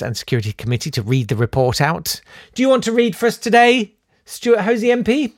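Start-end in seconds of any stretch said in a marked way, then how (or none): 2.5-5.3 higher-pitched classroom request; teacher to pupil. Acted. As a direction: ask like a teacher picking a reader. Acting teacher picking a reader.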